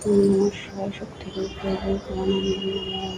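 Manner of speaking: soft, slow devotional murmur; murmured prayer. Real, not acted. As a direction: breathe the chant reverently. Devotional chant after the puja. (নিচু গলায় প্রার্থনা)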